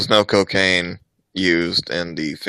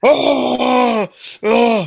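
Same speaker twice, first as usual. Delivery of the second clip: loud high excited cry; excited shout; 8 dB louder than usual. Real, not acted. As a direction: react to the big slam. Big slam in the match.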